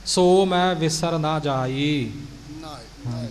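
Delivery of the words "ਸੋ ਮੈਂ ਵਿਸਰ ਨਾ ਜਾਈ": slow, small break between ਸੋ and ਮੈਂ; don't run ਸੋ ਮੈਂ together; careful separated words; separate ਸੋ and ਮੈਂ. Shown as a demonstration. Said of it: "ਮੈਂ ਵੱਖਰਾ".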